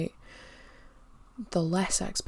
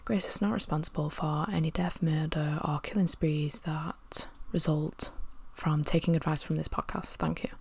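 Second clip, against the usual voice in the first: disclaimer voice. Pretend. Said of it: "disclaimer voice at the end of adverts".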